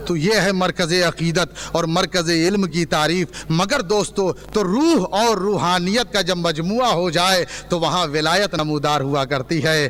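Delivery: measured preaching to a gathering; sermon conclusion. Real, not acted. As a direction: wind the sermon down with solemn conviction.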